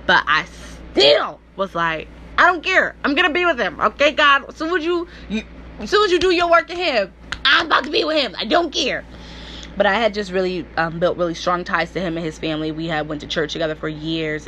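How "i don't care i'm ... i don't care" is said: high, pleading, voice close to breaking; tearful pleading. Retold or imitated. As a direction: beg God through rising tears. Inner pleading with God.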